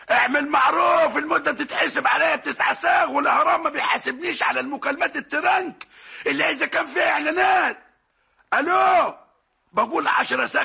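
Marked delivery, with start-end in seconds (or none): 0.1-7.8 shouting into phone. Acted. Shouting on bad phone line. 8.5-9.1 calling out hello. Acted. Calling on bad phone line.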